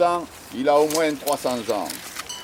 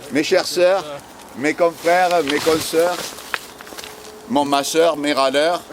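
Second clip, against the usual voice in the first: preaching; 3 dB louder than usual. Pretend. Mock sermon greeting.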